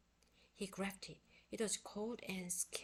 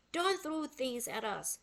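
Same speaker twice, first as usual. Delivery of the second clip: louder scolding call up at the monkey; higher, louder scold; shout; 5 semitones higher, 7 dB louder than usual. A narrator's reading. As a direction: tell the monkey off, raised voice. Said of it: "shouted Annie".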